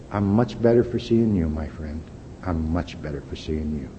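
softly dropping, sincere retold reply; tender reassurance.

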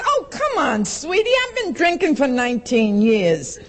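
high scoffing start; dismissive. Retold or imitated. The speaker scoffing at the AA woman's warning. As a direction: brush her off with mock ease. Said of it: "I says".

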